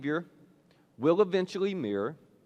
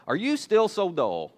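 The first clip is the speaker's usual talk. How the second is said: higher, drawn-out teasing question; grinning tease; 4 semitones higher, 5 dB louder, slower than usual. Retold or imitated. Jesus having fun with his closest disciples, grinning tease. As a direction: tease them slowly, as if with a grin. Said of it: "said this with a grin on his face".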